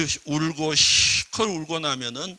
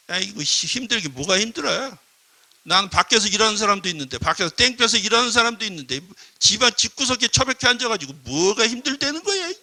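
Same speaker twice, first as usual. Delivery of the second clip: scornful husband; 3 semitones higher, 3 dB louder than usual. Acted. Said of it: "남편이 뭐라 그래요?".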